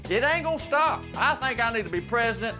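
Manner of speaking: real heated excitement, rising; fired up. Real, not acted. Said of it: "Calm down".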